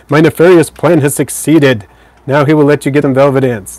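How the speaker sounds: lightly hammed-up evil schemer, projected; a hint of triumphant villain; mock villain gloating. Streamer teasing viewer about velvet ants, playful villain gloating.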